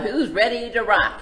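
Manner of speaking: loud hype call to the crowd; rock-star shout. Acted. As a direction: whip the crowd up. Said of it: "Sheep asks the crowd".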